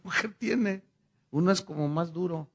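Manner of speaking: ordinary talk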